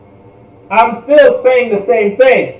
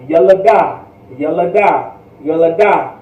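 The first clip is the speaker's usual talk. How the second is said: "Yelada, yelada, yelada" rolled off smoothly; fluent practice repetitions; fluent off the tongue; 3 semitones lower than usual. Shown as a demonstration. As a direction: run "yelada" quickly and fluently. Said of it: "fluent off the tongue".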